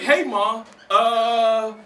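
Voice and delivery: lightly voiced young son; kid asking mom. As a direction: ask like a puzzled little boy. Child asking his mom.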